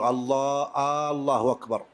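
الله said as آه الله, the wrong form; lengthened opening alif. Shown as a demonstration. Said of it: "وهذا خطأ".

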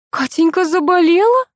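mother afraid for her daughter, frightened question. A narrator's reading. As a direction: ask in fear. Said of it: "испуганно спросила Нина".

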